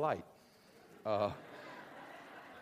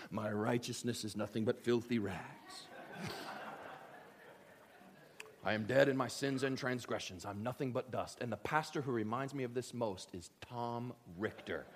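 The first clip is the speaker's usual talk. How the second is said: low, hushed grovelling confession; understated piety, lower and softer; mock pious self-abasement; 6 semitones lower, 9 dB quieter than usual. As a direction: play the humble churchgoer, lightly. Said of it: "What you're supposed to say is".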